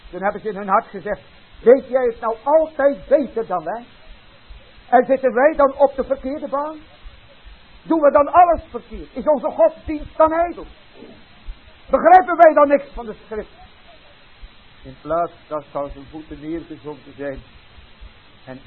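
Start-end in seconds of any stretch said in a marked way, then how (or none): 1.6-13.6 rising, louder, wounded questions; indignant protest. Acted. Religious leaders indignantly rejecting the rabbi's teaching. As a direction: fire back as if insulted. Offended leaders answer the preacher.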